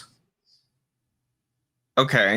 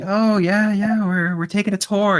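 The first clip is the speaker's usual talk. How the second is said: schmoozing; 10 semitones higher, 5 dB louder than usual. Acted. Rogue schmoozing goblin in character.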